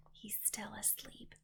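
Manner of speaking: soft unvoiced whisper. A narrator's reading. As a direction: breathe it so the giant won't wake. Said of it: "the B F G whispered".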